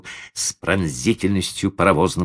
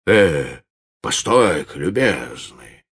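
bossy bass drawl; slower than usual. Acted. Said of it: "начальственным басом протянул".

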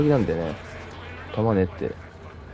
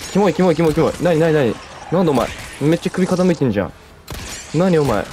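higher, louder disgusted panic; freaked out; 5 semitones higher, 4 dB louder than usual. Real, not acted. Gamer meeting a creepy twisted monster, freaked out and loud.

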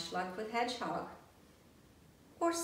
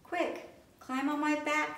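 urgent; 9 semitones higher, 4 dB louder than usual. Acted. Bear urges rescue.

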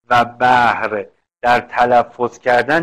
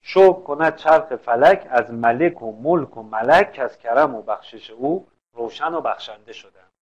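recited verse. Shown as a demonstration. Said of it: "جناس ناقص حرکتی".

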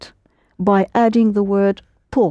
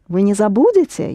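"забудете" raised to make it a question; much faster than usual. Shown as a demonstration. Teacher repeats the question for the student, voice raised on "забудете". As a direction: turn the statement into a question with a lift on "забудете". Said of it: "only raise your voice".

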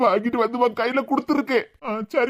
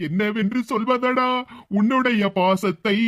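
slow, mock-poetic declamation; mock dramatic; 2 semitones lower, slower than usual. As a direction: ham it up like a movie line. Mock poetic praise of friend. (மெதுவான கேலியான செந்தமிழ் வசன நடை)

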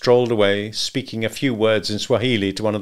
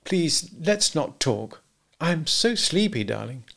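slow, high, drowsy plea; sleepy pleading; 7 semitones higher, slower than usual. A narrator's reading. Wife to husband who wants to talk, sleepy pleading. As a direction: beg off, drawling sleepily.

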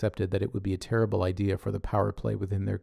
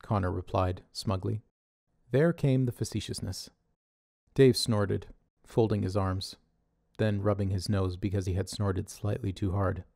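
ordinary delivery

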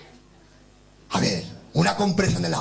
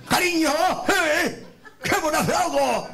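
high, drawn-out coaxing; hammed-up sweet talk, pitched high; coaxing partner; 6 semitones higher, slower than usual. Comic propositioning his partner in summer, coaxing. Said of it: "En verano le dices a tu pareja".

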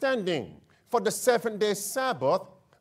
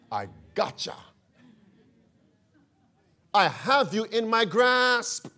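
gloating pope. Acted. Preacher voicing the pope's inner thoughts, gloating. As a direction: lightly act a pope privately savouring his catch. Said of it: "The Pope must be smiling inside".

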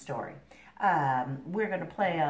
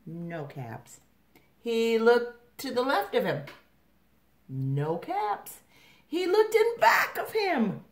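animated story reading; 5 dB louder, slower than usual. A narrator's reading. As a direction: read to children with big pitch swings. Reads story to children.

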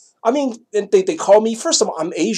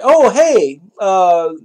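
put-on young boy; 2 semitones higher, slower than usual. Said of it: "Boys like".

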